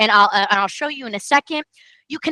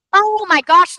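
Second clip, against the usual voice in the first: excited gasp; 6 semitones higher, 5 dB louder, slower than usual. Real, not acted. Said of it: "the hair is standing up on my arm".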